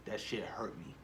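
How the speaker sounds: soft, choked-up whisper; real whisper. Real, not acted. Fan telling viewers the ending hurt, whispering. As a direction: hush it, moved to near tears. Emotional fan recalling sad scene.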